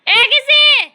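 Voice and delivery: high, loud sing-song questions and rising calls. Real, not acted. Mother drills baby on words.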